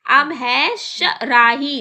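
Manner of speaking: शराही read slowly and carefully; slow sounding out. Shown as a demonstration. Teacher reading the word from the book slowly. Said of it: "लेकिन हमें पता है ये सुराही है".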